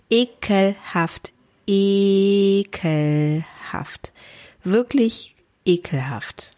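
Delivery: slow, drawn-out disgust, sinking to a whisper. Real, not acted. To her friend after the story, slow drawn-out disgust. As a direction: savour each word of disgust.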